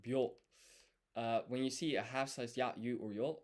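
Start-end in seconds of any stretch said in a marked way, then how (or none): 0.1-0.3 byo as one blended syllable. Shown as a demonstration. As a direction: glide byo into one sound. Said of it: "It's a blended syllable".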